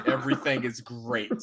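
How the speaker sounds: lightly imitated unconvincing reassurance; a hint of mock menace; scary unconvincing tone. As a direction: mimic a reassurance nobody would believe. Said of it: "his tone is really scary".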